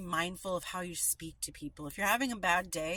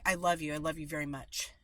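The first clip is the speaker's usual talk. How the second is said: dismissive tone; 3 semitones lower, 3 dB louder, faster than usual. Shown as a demonstration. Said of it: "just by that tone change".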